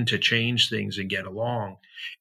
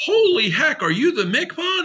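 retold thrilled exclamation; excited outburst; 13 semitones higher than usual. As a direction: blurt it out like meeting a hero. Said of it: "I was like".

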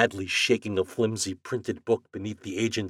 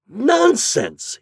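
much higher, sharp outburst; angry shout; 9 dB louder than usual. Acted. Morehouse shouting down the agent, angry. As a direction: bark it out. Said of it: "he shouted".

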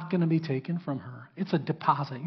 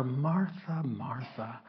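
tender. Acted. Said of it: "some tenderness in the way".

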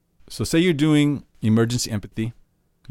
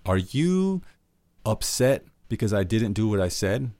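wrong way to ask. Shown as a demonstration. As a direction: ask it like an accusation. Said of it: "what you don't wanna do is be like".

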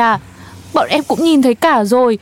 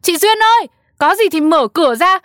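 high, anxious call through a door; 4 semitones higher than usual. Acted. Neighbour at Duyên's locked door, calling to her.

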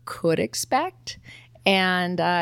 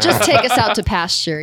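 laughing; 6 dB louder than usual. Real, not acted. Laughing joke about the show ending.

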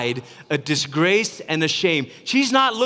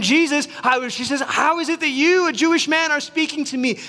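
woman's question; 9 semitones higher than usual. Retold or imitated. Woman questions Jesus, high voice.

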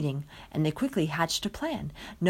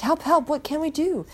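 panicked cry; 9 semitones higher, 4 dB louder than usual. Acted. Panicked villagers call out.

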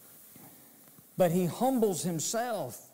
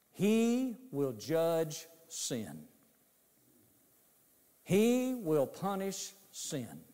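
solemn pronouncement; 2 semitones lower, much slower than usual. Acted.

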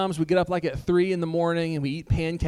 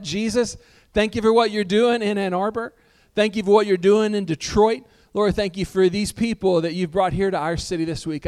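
prayer. Acted. Pastor praying over the Detroit crew, earnest prayer voice. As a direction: lead the church in prayer, head bowed.

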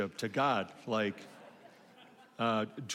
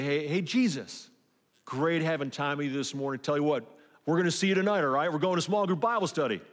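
cheery, louder, higher send-off to a friend; breezy goodbye; 4 semitones higher, 5 dB louder, faster than usual. Pretend. Churchgoer waving Jesus off from the car, breezy and loud. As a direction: toss a casual see-you-later out the car window.

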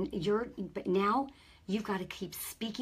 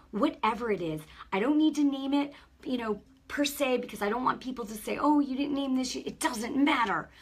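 fervent prayer. Acted. Prays deliverance over viewers.

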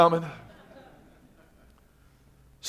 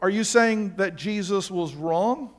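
slow probing question; slower than usual. Retold or imitated. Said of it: "you go".

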